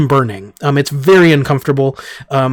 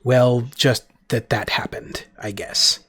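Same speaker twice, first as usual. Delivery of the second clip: whisper; 2 semitones lower, 7 dB quieter than usual. Acted. Ambassador trails into a whisper.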